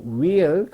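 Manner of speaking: "will" begun with W alone, like "weel"; silent H. Shown as a demonstration. Teacher recommending no H in "wheel", silent H. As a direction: drop the H and open "will" on W. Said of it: "가급적이면 안 내는 게 좋죠".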